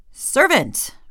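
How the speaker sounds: a king calling his servant in; 1 royal summons. Acted. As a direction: call it out high and loud like a king.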